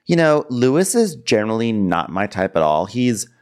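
put-on voice rising high at the end; light impression of a picky woman; lightly voiced Oriana. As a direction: lift "almost tall" into a high question. Acting out Oriana sizing up Lewis.

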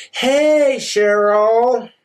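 high, drawn-out mock greeting; fake-friendly greeting. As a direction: greet her with put-on sweetness. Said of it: "she comes back from the bathroom".

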